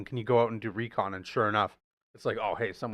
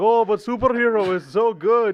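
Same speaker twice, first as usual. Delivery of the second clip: put-on Russian accent, higher and louder; 11 semitones higher, 9 dB louder than usual. Retelling what the dad says to his daughter: Red Guardian Russian accent. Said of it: "David Harbour in his Russian accent".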